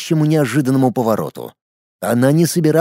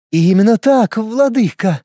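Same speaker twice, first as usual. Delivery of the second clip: drawn-out sinister eagerness; slow theatrical villain menace; 7 semitones higher than usual. A narrator's reading. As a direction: drawl it with relish, menacing. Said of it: "с предвкушением зловеще протянула Жозефина".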